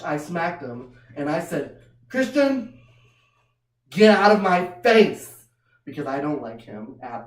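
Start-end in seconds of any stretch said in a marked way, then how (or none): 2.1-5.5 sharp scold. Retold or imitated. Scolding the kid.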